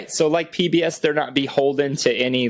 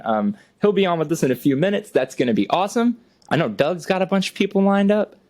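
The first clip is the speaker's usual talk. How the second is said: NPR voice. Acted. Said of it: "talking like N P R right now".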